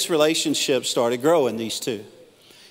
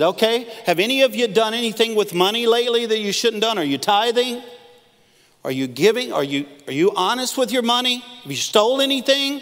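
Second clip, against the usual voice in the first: much higher, louder probing questions; Wesley questioning; 9 semitones higher, 4 dB louder than usual. Retold or imitated. John Wesley grilling his men about money, high and loud. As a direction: grill them like a stern mentor. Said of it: "He said".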